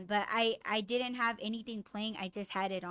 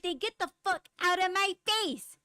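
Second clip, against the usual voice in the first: high, raised-voice retort, acted out; retold angry outburst; 8 semitones higher, 4 dB louder than usual. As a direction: re-enact angrily telling someone to back off. Retells snapping back at a bystander.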